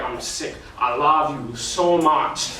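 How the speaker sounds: whispered, then a slow, drawn-out lovesick plea; mock lovesick whine. Amnon whining to his friend, a mock lovesick moan. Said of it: "who talks like that?".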